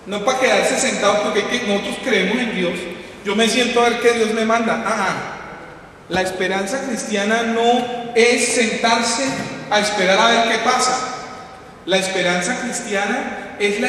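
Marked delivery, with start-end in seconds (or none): none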